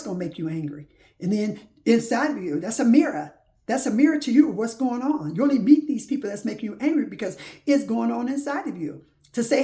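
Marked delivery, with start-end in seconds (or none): 1.2-9.6 1 fervent preaching. Real, not acted. Preaching climax about mirrors.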